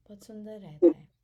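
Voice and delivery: whispered quickly. Shown as a demonstration. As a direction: lean in and breathe it quickly. Repeats phrase, then whispers it. (फुसफुसाकर, जल्दी)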